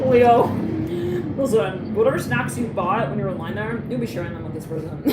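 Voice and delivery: loud call to Leo, listen up. Real, not acted. Calling out to Leo viewers.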